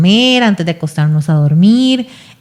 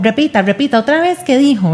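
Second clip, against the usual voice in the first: nagging parent; 5 semitones higher than usual. Retold or imitated. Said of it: "no es como".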